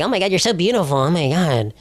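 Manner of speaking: lightly mocked old man fawning over a girl; a hint of gushing old-man admiration; imitated old man. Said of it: "an old man, and they just go like".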